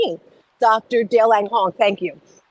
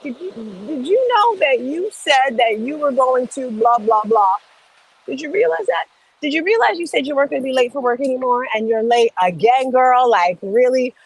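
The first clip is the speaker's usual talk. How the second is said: teasing, slightly higher scolding; calling a friend out; 3 semitones higher than usual. Pretend. Checking a friend who keeps breaking her word, mock scolding. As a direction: needle a friend about a broken promise.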